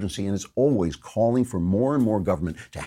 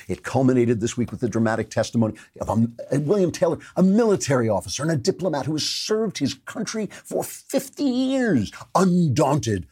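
swelling higher and higher in sarcastic awe; mock heroic; 5 semitones higher than usual. Shown as a demonstration. Mocking the Times story for his audience, hammed-up heroic awe. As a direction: ham up the heroism like a tribute reel. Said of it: "I'm tearing up at the heroism".

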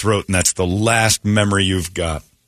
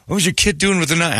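incredulous; 9 semitones higher than usual. Retold or imitated. Coworker quoted.

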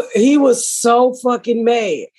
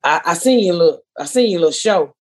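much lower, hesitant mock voice of the ex; imitating the ex; 7 semitones lower than usual. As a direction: drop the voice low and stammer like the ex. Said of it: "he was like".

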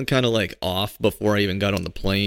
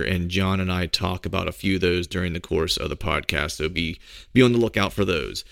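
ad read. Acted. Sponsor ad read.

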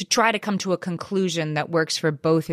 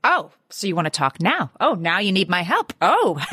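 mock gloating; 2 semitones higher than usual. Acting out gloating at kid.

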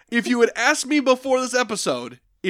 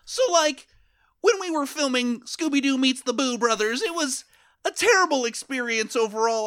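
lightly voiced actor; 6 semitones higher than usual. Comedy bit playing an actor.

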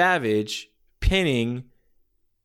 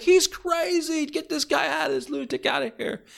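Gorilla Monsoon. Retold or imitated. Commentator calling for the lunatic's removal, exasperated. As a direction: bellow it like an appalled announcer. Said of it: "Gorilla Monsoon's like".

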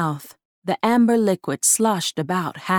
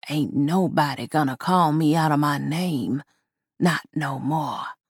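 gravelly doll voice; 3 semitones lower, 3 dB quieter than usual. Acted. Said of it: "The gravelly voice".

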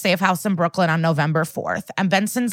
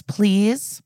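higher-pitched, condescending little please; 4 semitones higher than usual. Retold or imitated. Husband to the detective at his door, condescending. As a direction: imitate him politely talking down to a detective. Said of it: "condescendingly and quietly to Benson goes".

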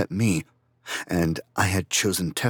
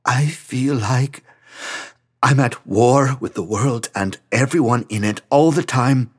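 crying; 6 semitones higher, 6 dB louder than usual. Acted. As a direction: speak through tears, worn out. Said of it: "Franz had started to cry again".

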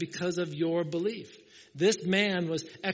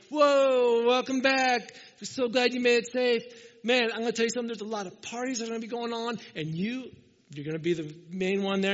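higher, louder party-buddy greeting; loud buddy welcome; 6 semitones higher, 5 dB louder than usual. Retold or imitated. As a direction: whoop him back home like a party friend. Buddy welcoming him home.

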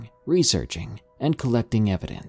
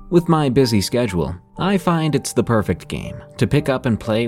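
ad read. Acted. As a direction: sell it like a podcast ad. Narrator reads sponsor ad.

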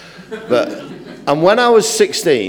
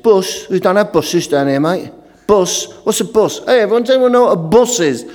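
imitated London fellas making fun, higher on the jeers; mock a newcomer's word, calling others in; mocking London lads; 3 semitones higher than usual. Two London lads making fun of a lost northerner, imitated jeering. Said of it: "there was two young fellas".

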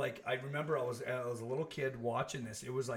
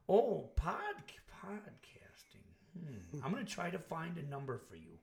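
put-on halting, softer old operator taking her time; old lady; 4 dB quieter than usual. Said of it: "some old lady going".

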